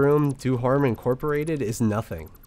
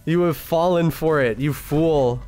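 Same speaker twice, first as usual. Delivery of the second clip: evil villain gloat. Pretend. Gloating at the trapped victim.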